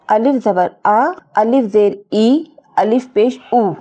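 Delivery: teacher's sound-by-sound reading of आ, ई, ऊ, vowels held long; spelling-out drill. Shown as a demonstration. Teacher reads vowel marks to learners, spelling-out drill. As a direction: recite "अलिफ ज़बर आ" in measured chunks, drawing out the final vowel. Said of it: "अब हम जब इसे पढ़ेंगे इसको".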